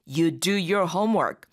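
very slow, even teacher read; slow model reading. Shown as a demonstration. Teacher reads the example slowly for students. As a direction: spell it out word by word.

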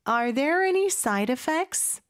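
"Are there any side effects?" slow and linked, rising at the end; slow practice model. Shown as a demonstration. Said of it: "같이 연습해 볼까요?". ("Are there any side effects?"를 천천히 이어서 끝을 올려 연습)

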